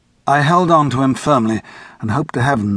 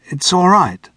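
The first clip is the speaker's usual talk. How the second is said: encouraging; 7 semitones higher, 3 dB louder, slower than usual. A narrator's reading. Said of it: "I said to Gordon encouragingly".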